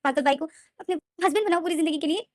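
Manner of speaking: high, loud tearful protest; crying in anger. Acted. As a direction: rail against it through tears. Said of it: "विंग जो रो रहा था".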